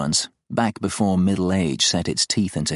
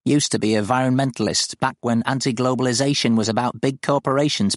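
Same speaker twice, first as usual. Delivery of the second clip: put-on higher-pitched old rural woman reminiscing; witchy old countrywoman; 5 semitones higher than usual. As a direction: tell it as a salty old farm woman. Wendy voiced in the story.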